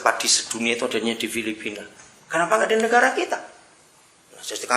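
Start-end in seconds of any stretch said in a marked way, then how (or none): 2.3-3.4 rhetorical outburst. Acted. Preacher's rhetorical question.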